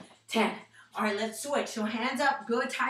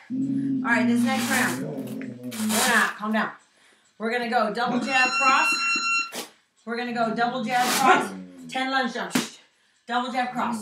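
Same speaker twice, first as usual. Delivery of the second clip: boxing coach calling combos; 4 dB louder than usual. Real, not acted. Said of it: "coach calling out combos".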